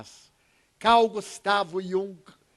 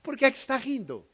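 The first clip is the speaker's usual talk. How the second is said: higher, insistent questioning of a stranger; grumpy man again; 4 semitones higher than usual. Retold or imitated. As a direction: press him, half accusing. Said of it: "E ele novamente".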